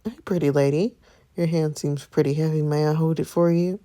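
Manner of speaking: lightly voiced smooth flirt; smooth talker. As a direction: sweet-talk her a little. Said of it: "Oh, smooth talker".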